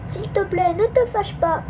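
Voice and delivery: high-pitched pleading. A narrator's reading. Nina the little mouse begs the magpie not to be angry, pleading. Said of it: "implora Nina".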